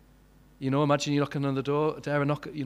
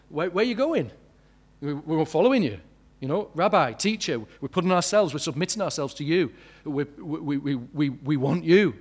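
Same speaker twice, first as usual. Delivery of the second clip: eager pleading; 2 semitones higher, 4 dB louder than usual. Retold or imitated. Disciples eagerly pleading with Jesus.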